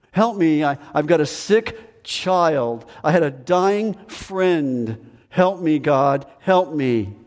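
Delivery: slow, imploring prayer for help; a troubled believer pleading with God, slow and imploring. Retold or imitated. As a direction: beg God for help, slowly. Voicing a desperate prayer.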